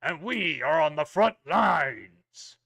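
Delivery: a hint of a stern royal knight; booming warrior king. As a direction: address recruits with solemn authority. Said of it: "very kind of stern royal voice".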